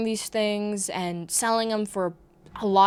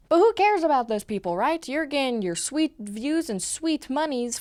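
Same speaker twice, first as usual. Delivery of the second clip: sarcastic; 4 semitones higher than usual. Real, not acted. Sarcastic rhetorical question.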